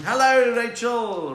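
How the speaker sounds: loud, high drawn-out greeting; calling out. Real, not acted. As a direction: holler hello to someone who just arrived.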